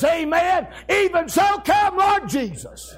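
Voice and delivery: high hollered amen, easing down at the end; hollering. Retold or imitated. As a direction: holler it out like a rejoicing preacher. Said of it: "And John hollers".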